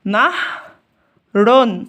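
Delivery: نهر drawn very slowly, ending in نَهْرٌ; syllable by syllable. Shown as a demonstration. Teacher sounding out the word for young pupils, very slow. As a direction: stretch نهر out so the sukun on ه is heard. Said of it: "زي مثلًا كلمة نهر".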